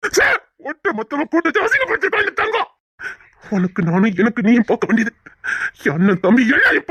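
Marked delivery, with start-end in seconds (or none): 0.1-2.7 angry rant. Acted. Husband ranting about Thangam.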